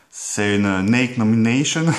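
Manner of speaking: "Nomination" said the English way in a mock American accent. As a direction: drawl "Nate Nomination" like an American. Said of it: "Excusez mon accent".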